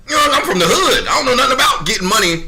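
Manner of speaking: high, quick, laughing. Real, not acted. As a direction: laugh at yourself. Laughing about the hood.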